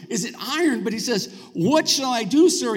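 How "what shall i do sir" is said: raised, louder cry for help; alarmed exclamation. Acted. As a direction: exclaim it as someone freaking out. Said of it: "he exclaimed to Elisha".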